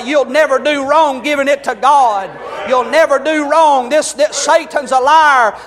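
fiery sermon shout; preaching shout. Real, not acted. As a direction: lift it into a full preacher's shout.

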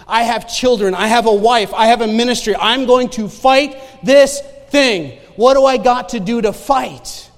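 loud, emphatic declaration; fierce resolve. Retold or imitated. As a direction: preach your determination to fight. Retells his resolve to fight cancer.

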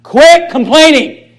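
QUIT pushed up high and slow; a pastor's stern rebuke; emphatic command. Real, not acted. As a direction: land "Quit complaining" hard and slow. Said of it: "Write this down".

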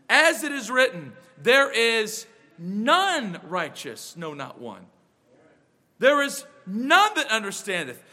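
measured, solemn Bible reading; scripture reading. Acted. Reads Romans aloud.

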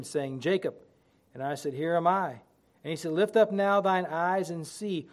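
solemn King James scripture reading; booming biblical narration. Acted. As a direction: read it like the pulpit Bible. Reads scripture aloud in sermon.

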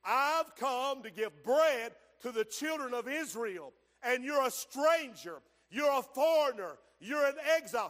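emphatic preaching. Acted. Voices Jesus's stern reply.

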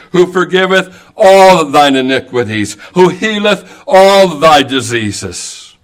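all slowed and pressed each time; stress on all. Shown as a demonstration. Preacher to congregation, stressing all in Psalm one oh three. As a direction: lean on each all in who forgiveth all thine iniquities. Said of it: "the emphasis on the word all".

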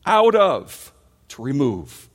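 high loud burst on out of, then firm; emphatic cry. Real, not acted. Preacher to congregation, crying out the word's meaning.

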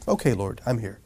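low, soft surrender; acted hushed willingness; yielded. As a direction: submit quietly, as if in prayer. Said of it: "somebody who's yielded to him, just says".

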